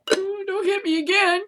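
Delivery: high, whimpering mock victim; mock a pleading crybaby; squeaky fake whimper; whiny mock plea. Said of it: "You're like".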